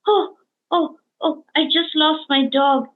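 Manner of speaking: retold sob, high and breaking; imitating crying. Grieving man tells her he just lost his dog, imitated crying. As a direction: voice cracking through tears as she retells it. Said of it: "And he burst out crying".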